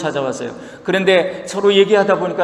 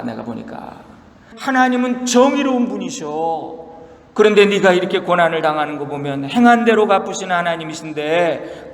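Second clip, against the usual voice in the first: scolding friends. Retold or imitated. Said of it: "욥을 비난하면서 논쟁을 해요".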